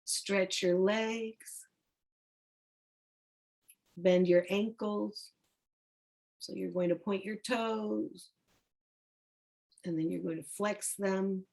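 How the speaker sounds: unhurried instructions with long pauses; guided meditation. Acted. Teacher leading students through tightening and releasing the body, calm guided-relaxation voice. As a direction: draw out the final word of each cue.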